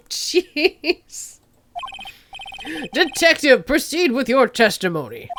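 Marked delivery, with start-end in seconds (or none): 0.1-1.4 put-on Canadian accent. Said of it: "he is Canadian".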